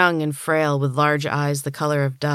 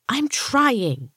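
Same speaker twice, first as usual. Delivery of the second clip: put-on much higher, panicky child's protest; high-pitched hysterical whine; 9 semitones higher than usual. A narrator's reading. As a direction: squeal it in hysteria. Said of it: "voice was high and hysterical".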